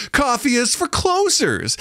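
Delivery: put-on high, slow baby-talk delivery; stretched-out kiddie voice. Shown as a demonstration. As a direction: coo it up high as if to a toddler. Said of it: "it's baby talk".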